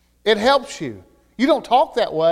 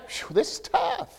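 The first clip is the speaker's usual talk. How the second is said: weary sigh; 6 semitones higher, 10 dB quieter than usual. Retold or imitated. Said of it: "and I think".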